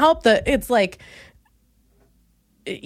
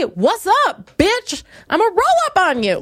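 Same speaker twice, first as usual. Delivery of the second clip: higher mock tough-girl Teletubby; tough Teletubbies; 7 semitones higher than usual. Imagining Teletubbies trash talking, higher mock tough voice. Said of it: "Teletubbies, say".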